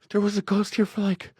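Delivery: high-pitched, upset pleading; imitated tearful girlfriend. Girlfriend insisting a ghost was there, imitated high and upset. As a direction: mimic a frightened, teary insistence. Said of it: "she's got tears all over her face".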